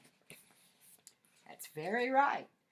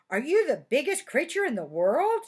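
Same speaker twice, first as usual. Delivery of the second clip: high, bright, eager mouse voice; eager little mouse; 6 semitones higher, 7 dB louder than usual. Acted. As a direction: ask it like a hopeful tiny mouse. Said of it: "she asked".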